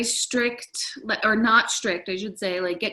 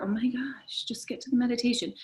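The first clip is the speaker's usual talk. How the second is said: quicker, lightly voiced impatience; mock impatient listener; 4 semitones higher, 4 dB quieter than usual. Teacher imagining a listener wanting meditation, mock impatient. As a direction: hurry it along like a listener who's had enough. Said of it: "either made you feel like".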